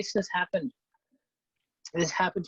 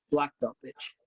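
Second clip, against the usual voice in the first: cocky boast. Retold or imitated. Boasting to friend.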